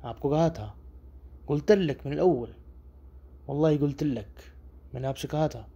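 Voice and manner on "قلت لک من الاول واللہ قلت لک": higher, slow قلت لک من الاول; insistent I told you. Shown as a demonstration. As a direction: swear you said it from the start. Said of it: "لہجے سے".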